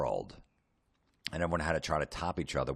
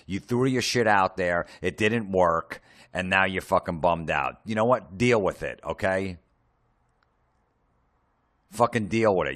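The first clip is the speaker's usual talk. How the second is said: mock-angry rant; 4 dB louder than usual. Angry rant at attention seekers.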